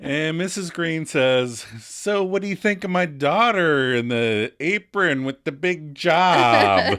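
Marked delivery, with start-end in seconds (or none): 1.8-7.0 condescending. Retold or imitated. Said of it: "sound both overimportant and belittling".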